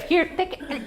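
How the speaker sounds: put-on high, loud, gushing mother-in-law with a Spanish accent; excited mother-in-law. Mother-in-law congratulating her on the pregnancy, high and gushing. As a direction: squeal like a thrilled grandma-to-be. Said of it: "mother-in-law came over".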